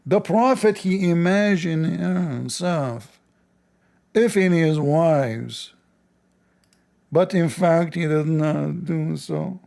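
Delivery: slow, drawn-out emphasis on imagined; slow pointed reread; slow deliberate reading. Shown as a demonstration. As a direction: read it slowly, stressing imagined. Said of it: "Shall I show you?".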